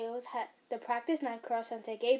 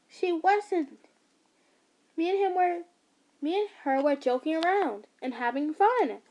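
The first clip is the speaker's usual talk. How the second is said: angry; 5 semitones higher, 5 dB louder than usual. Acted. Son defends friend angrily.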